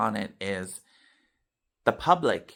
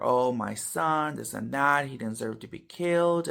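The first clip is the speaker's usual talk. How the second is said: mock wailing; 2 semitones higher than usual. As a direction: lightly act out a lament. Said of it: "yelling and screaming and crying".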